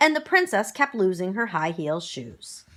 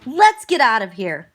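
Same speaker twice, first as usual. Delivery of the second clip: loud urgent call to flee; yelled; 7 dB louder than usual. Acted. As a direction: shout it, ready to run. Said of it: "she yelled".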